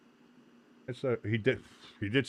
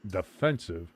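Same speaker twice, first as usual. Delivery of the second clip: sports broadcaster; 5 dB louder than usual. Real, not acted. Stream host announcing and commentating.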